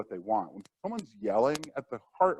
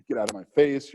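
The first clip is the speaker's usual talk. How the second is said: mock angry retort; 3 semitones higher, 4 dB louder than usual. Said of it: "respond in kind".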